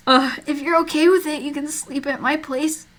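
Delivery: high, laughing cowboy drawl. Acted. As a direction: redo the line as a cowboy. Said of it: "I gave him a cowboy voice".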